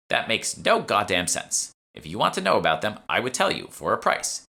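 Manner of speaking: a hint of a sly old shopkeeper; smug old shopwoman.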